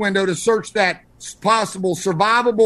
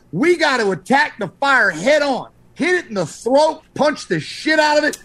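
fired-up; 3 semitones higher than usual. Real, not acted. Fired-up instructor urging attack.

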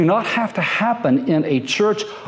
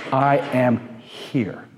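slow reverent reply; 5 semitones lower, 3 dB quieter, much slower than usual. A narrator's reading. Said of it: "Moses responds with this phrase".

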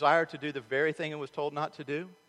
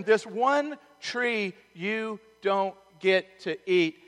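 voice of God; 7 semitones higher, 9 dB louder, much slower than usual. Retold or imitated. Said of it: "And God said to them".

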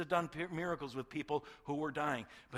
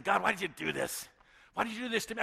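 loud, raised-pitch complaint to God; angry protest; 6 semitones higher, 7 dB louder, faster than usual. Acted. Preacher voicing what Jesus did not say to God, angry protest. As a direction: cry out in mock protest. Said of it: "mad at his father".

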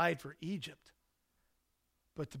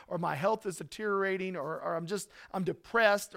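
listener's complaint; 5 dB louder than usual. Retold or imitated.

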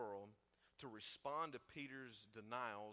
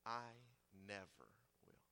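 slow, loud, a hint of a proud Peter; Peter's bold vow; 5 semitones higher, 9 dB louder than usual. Peter vowing loyalty to Jesus, slow and loud. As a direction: swear it like a loyal friend. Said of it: "Peter replied".

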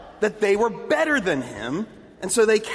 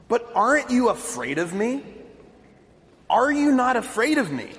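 confused; 4 semitones higher than usual. Retold or imitated. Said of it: "with visible confusion now".

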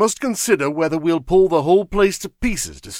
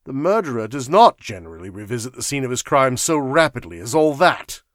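raised, emphatic disbelieving protest; exasperated argument; 4 semitones higher, 7 dB louder than usual. A narrator's reading. Sir Walter objecting to Fisher's claim, exasperated. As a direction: argue it out, incredulous.

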